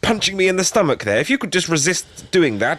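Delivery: politely oblivious victim, slightly high; lightly voiced, mild-mannered complaint to an attacker; courteous understatement while being attacked; oblivious character. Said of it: "a guy who's just oblivious".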